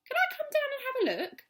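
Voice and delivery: high and loud eager call; shouted back. Acted. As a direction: call down over the railing. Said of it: "Mister Hoppy shouted back".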